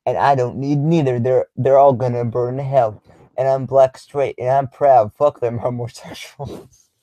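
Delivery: a hint of a preachy, proud ranter; Advice Show impression. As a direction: attempt an amateur impression, breaking into a laugh at the end. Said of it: "my best advice show impression".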